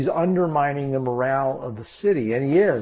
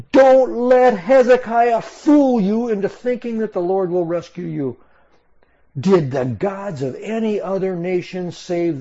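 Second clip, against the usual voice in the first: shouted speech; 5 semitones higher than usual. Acted. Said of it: "this whole speech that he shouts".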